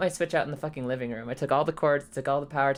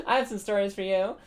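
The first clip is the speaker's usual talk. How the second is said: laughing; 3 semitones higher than usual. Real, not acted. Repeats through giggles.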